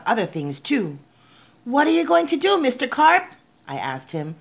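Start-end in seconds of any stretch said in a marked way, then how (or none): 1.6-3.2 high-pitched, eager questioning; anxious question. A narrator's reading. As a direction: ask with urgent concern. Boy anxiously questions Mister Carp.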